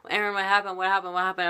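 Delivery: high, urgent repeated questioning; alarmed teacher. Retold or imitated. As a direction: imitate a teacher rushing up in alarm. Voices alarmed teacher in story.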